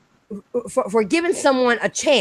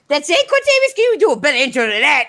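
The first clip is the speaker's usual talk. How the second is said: sharply higher teasing surprise; mock disbelief; 5 semitones higher, faster than usual. Real, not acted. Host teasing a guest's short intro, higher mock disbelief. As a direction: sound amazed he said so little.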